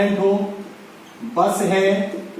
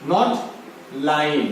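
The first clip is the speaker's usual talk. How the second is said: "not" stressed, "line" dropped low; 4 semitones lower than usual. Shown as a demonstration. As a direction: say "not ... line" with a firm falling correction. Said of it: "that is wrong".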